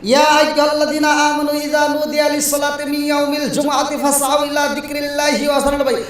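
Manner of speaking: melodic Arabic verse recitation; Quran recitation. Acted. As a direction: recite scripture in a preacher's singsong.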